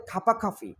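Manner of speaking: "খাপা খাফি" as one run with airy kh; linked sound of phrase. Shown as a demonstration. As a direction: puff air on both খ of "খাপা খাফি". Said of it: "এরকম মনে হবে". ("খাপা খাফি", দুটো খ-তেই বাতাস)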